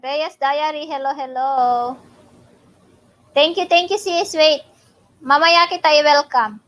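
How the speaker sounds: loud excited greeting, high; calling out a happy hello; excited shout. Real, not acted. Excited greeting shouted over bingo.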